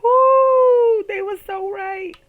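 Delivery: high, loud whoop, then laughing agreement. Real, not acted. Comic whooping at how right the hecklers were. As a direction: whoop and concede it.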